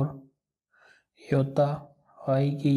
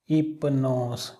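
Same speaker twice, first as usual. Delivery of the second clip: slow reading; much slower than usual. Shown as a demonstration. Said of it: "जोड़ करके पढ़ सकते हैं".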